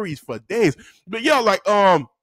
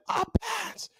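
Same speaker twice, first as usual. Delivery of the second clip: obedient class; 13 semitones higher, 9 dB quieter than usual. Retold or imitated. Class answers teacher.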